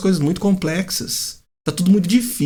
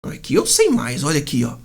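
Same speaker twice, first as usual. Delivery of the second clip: mock know-it-all; 4 semitones lower than usual. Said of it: "dando carteirada".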